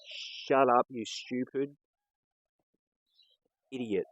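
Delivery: retold yell. Other customer butting into the servo argument, retold yell. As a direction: imitate a fed-up bystander yelling out. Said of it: "He just yells out and goes".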